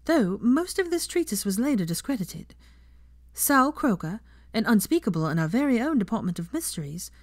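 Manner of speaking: a professor ending her lesson, lightly voiced teacher. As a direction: speak up to the class like a teacher. Teacher lectures her class.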